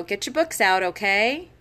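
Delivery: pleading request ending on a rising okay; begging tone. Shown as a demonstration. Teacher asking the class to get books out, pleading. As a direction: ask like you need their permission. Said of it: "you sound like you're begging for it".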